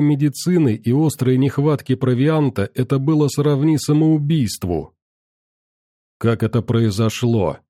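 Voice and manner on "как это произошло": icy voice. Acted. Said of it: "ледяным голосом".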